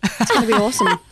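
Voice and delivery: playful put-on Australian accent. Shown as a demonstration. Singer trying Australian for the radio host, playful Aussie accent. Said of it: "give us a bit of your Australian accent".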